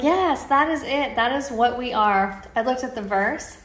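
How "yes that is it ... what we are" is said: joyful aha, pitched up and emphatic; excited realization. Retold or imitated. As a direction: burst out with thrilled conviction. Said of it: "And I was like".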